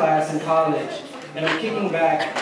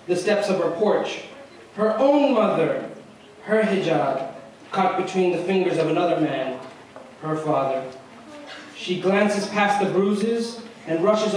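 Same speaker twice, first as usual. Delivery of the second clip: measured spoken-word delivery with dramatic pauses; poem recitation. Acted. Student reciting his poem about a girl in a hijab, spoken-word style. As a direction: recite in short, deliberate phrases.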